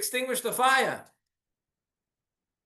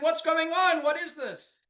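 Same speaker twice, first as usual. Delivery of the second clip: higher, bewildered cry; startled villager; 9 semitones higher than usual. Acted. Villager woken by banging at three o'clock, startled and confused. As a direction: voice the villager jolted awake. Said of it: "he awoke startled by the confusion".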